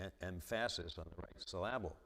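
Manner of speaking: "emphasis" stressed on the middle, as em-FASS-is; misplaced stress. Shown as a demonstration. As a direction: stutter into "emphasis", then say "syllable" as sil-LAB-ul. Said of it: "sometimes I don't put the right".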